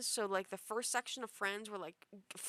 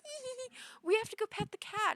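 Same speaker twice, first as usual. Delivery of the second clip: much higher giggly voice, then louder; giddy drunk friend; 13 semitones higher, 4 dB louder than usual. Retold or imitated. Drunk friends running to the elevator, high giggly voice. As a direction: giggle like a tipsy friend with a silly idea.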